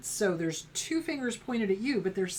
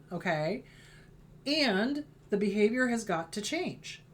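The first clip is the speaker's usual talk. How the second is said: firm parent. Retold or imitated. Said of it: "So you teach them".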